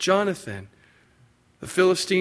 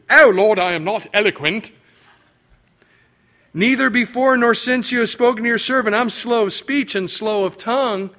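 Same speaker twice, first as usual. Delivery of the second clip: Moses pleading in a put-on English accent, higher and louder; hammed-up English accent; 6 semitones higher, 5 dB louder than usual. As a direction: play a posh Englishman begging God to pick someone else, in an English accent. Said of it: "Probably had an English accent".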